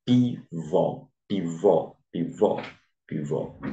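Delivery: "pivô" com VÔ acentuado; tônica na última sílaba. Shown as a demonstration. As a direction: repita "pivô" marcando bem o VÔ final. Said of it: "recai na última sílaba". (ênfase didática na última sílaba de "pivô")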